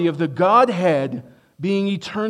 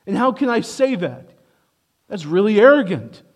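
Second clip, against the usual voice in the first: raised, incredulous voice of an imagined critic; mock objector; 5 semitones higher, 5 dB louder than usual. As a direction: voice the skeptic's challenge. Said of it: "No, it's not".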